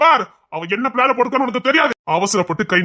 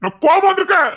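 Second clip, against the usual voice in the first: angry warning; 5 semitones higher than usual. Acted.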